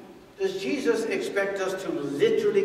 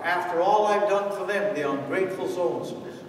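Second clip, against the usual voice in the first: whining martyr. Retold or imitated. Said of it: "this is how they talk".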